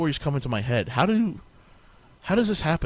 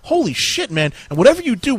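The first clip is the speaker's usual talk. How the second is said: gnome voice; 11 semitones higher, 5 dB louder, slower than usual. Acted. Gnomes confront digging narrator.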